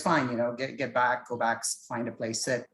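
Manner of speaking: lightly acted, placating an unruly passenger; calm, resigned driver. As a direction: humour him quietly and calmly. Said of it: "I need to be calm here".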